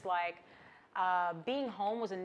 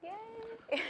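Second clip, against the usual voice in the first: excited cheer; 13 semitones higher, 4 dB quieter than usual. Real, not acted. Host cheers after guest intro.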